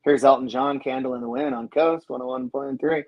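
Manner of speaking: lightly voiced easy-listening DJ patter; a hint of a mellow on-air announcer; mellow radio DJ. Host imitating his old on-air shift, lightly mellow DJ voice. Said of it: "So I did, you know, the, the jingle in was".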